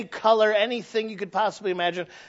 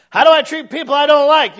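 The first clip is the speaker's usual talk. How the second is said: louder, higher questioning voice; mock questioner; 8 semitones higher, 12 dB louder than usual. Preacher voicing a churchgoer asking about enemies. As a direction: ask it like a skeptical churchgoer.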